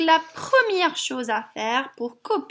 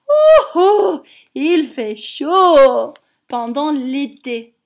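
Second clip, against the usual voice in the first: chaleur jouée; 7 dB louder than usual. Pretend. Mimes the heat for children.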